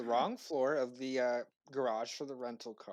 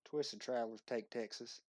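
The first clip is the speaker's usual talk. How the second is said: Twisted Travelers Take Texas in a Southern drawl; lightly drawled Texan accent; 6 dB quieter than usual. Pretend. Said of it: "I want your best Southern accent".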